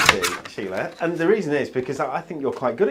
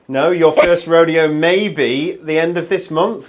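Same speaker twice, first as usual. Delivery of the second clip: laughing; 6 dB louder, slower than usual. Real, not acted. Teasing about first rodeo.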